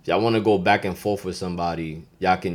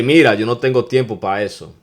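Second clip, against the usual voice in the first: Dominican Spanish example; 4 dB louder than usual. Shown as a demonstration. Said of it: "I could say".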